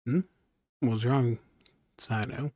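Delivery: ordinary talk, nothing marked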